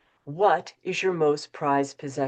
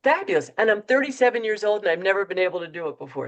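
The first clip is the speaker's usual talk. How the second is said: excited report; 3 semitones higher, 4 dB louder, faster than usual. Retold or imitated. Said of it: "he tried it and he said".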